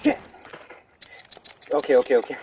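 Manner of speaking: ordinary delivery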